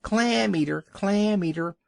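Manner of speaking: high, loud jeering yell; taunting shout. Acted. Young seal taunting the old walrus, loud high jeer. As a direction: hurl the taunt as loud as you can. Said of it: "shouted as loud as he could".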